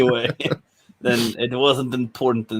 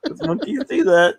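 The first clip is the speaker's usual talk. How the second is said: silly high voice; 14 semitones higher than usual. Pretend. Silly joke delivery.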